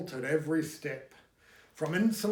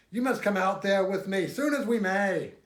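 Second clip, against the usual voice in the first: eager, louder urging; 5 semitones higher, 6 dB louder than usual. A narrator's reading. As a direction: press him to come along. Mason urging Dixon eagerly.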